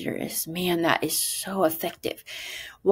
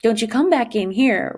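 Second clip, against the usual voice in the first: mom scolding; 5 semitones higher, 4 dB louder than usual. Retold or imitated. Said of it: "And she said".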